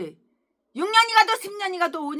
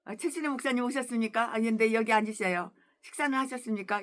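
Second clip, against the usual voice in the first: polite humble greeting; 2 semitones lower than usual. Retold or imitated. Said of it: "얼마나 겸손하셔".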